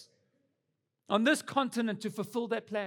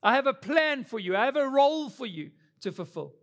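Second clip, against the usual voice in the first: a touch louder, proclaiming as God; lightly voiced God, declaring the calling firmly; 3 semitones higher, 4 dB louder than usual. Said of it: "God saying".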